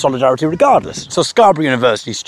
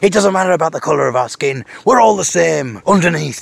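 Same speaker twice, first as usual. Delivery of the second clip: passionate speech; 4 semitones higher than usual. Retold or imitated. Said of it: "This is big, passionate speech".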